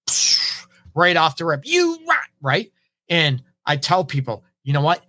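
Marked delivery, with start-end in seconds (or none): 0.1-0.7 sudden "psh" of air, like a blow-up; quick voiceless burst; explosive puff. Retold or imitated. Imitates going from zero to ten. 1.6-2.3 sudden high-pitched mock flare-up; mock explosive outburst. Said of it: "some people are very explosive".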